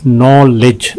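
"नॉलेज" drawn out in two beats; syllable breakdown. Shown as a demonstration. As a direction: lengthen the first syllable of "नॉलेज". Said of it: "दो हैं इसके". ("नॉलेज" दो हिस्सों में खींचकर)

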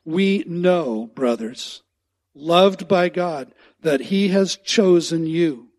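"loved" slow and loud, "We know" punched; emphatic reading. Shown as a demonstration. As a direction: read it out slowly for emphasis. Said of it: "underline that".

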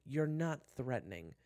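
slow, high, loud put-down; exasperated groan. Acted. June dismisses Kyler's threat, exasperated. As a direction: drag it out in exasperation. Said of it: "June groaned".

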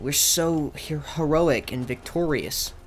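loud grand victory boast; mock heroic triumph. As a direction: boast like a hero. Celebrating a quest win.

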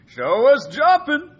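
drawn out, high and loud; excited demand. Real, not acted. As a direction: egg him on, big and slow. Teasing demand during game.

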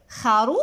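خروف with رو stretched long, then فن apart; syllable by syllable. Shown as a demonstration. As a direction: draw out the middle of خروف. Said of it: "إنه ماذا؟".

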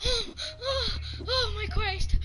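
scared laughing. Real, not acted. Recovering from a jump scare, laughing high. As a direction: laugh off the fright, winding down.

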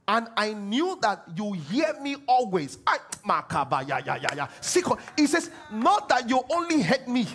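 ringing preacher's proclamation; confident proclaiming. Acted. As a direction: declare it with total certainty.

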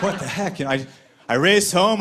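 ordinary delivery

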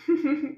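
short light giggle; amused giggle. Real, not acted. Teacher watches little ducks play, amused giggle. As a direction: giggle at something funny. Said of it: "So funny".

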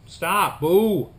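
sharp firm stop to a dog; firm call to a pet; telling off the dog. Real, not acted. Scolding dog.

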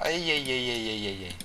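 soft, quiet hey hey hey; hushed hey hey; hushed warning. Real, not acted. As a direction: keep your voice down as you sneak. Sneaking up quietly.

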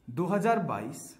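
"दो हज़ार बाईस" said slowly, each word spaced out; slow emphatic repeat. Shown as a demonstration. Teacher stressing the year to students, slow and deliberate. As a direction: drag out दो हज़ार बाईस to drive it home. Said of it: "तो आपको क्या देखना है".

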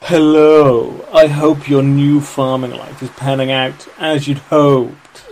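slow, posh, loud. Pretend. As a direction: speak like a posh gentleman. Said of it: "you wanna do Elliot's, like, posh voice".

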